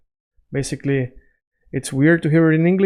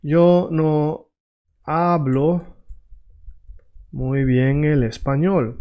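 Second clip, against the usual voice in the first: slow, word by word with pauses; measured teacher's model; slow demo; slower than usual. Shown as a demonstration. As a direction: spell out the Spanish phrase slowly for learners. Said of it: "say something like".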